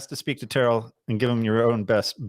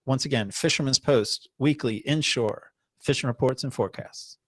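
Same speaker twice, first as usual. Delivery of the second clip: commercial voice. Acted. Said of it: "that's a great commercial".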